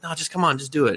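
high-pitched retold coaxing; mock urging. Girl pushing her friend to shout, urging.

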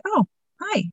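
high, bright mock surprise from the daughter; daughter looking up. Mother imitating her daughter's surprised hello. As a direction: pitch way up like a startled teen. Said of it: "she's like".

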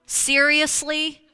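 high, loud, drawn-out cry of disbelief; loud and incredulous; exasperated cry. Retold or imitated. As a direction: let the frustration burst out at God. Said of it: "where I was like".

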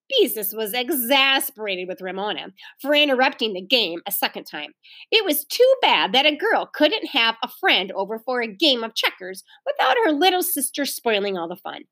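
animated, lilting storybook narration; story reading to children. A narrator's reading. Teacher reads the story to children, lively narration. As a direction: read expressively to young listeners.

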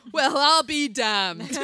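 slow amazed exclamation; surprised. Retold or imitated. Doctor's reaction quoted.

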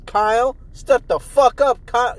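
loud, pumped-up hello to a buddy; greeting a coworker. Retold or imitated. To coworker Kyle at work, a hyped-up bro greeting. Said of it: "and I'm just like".

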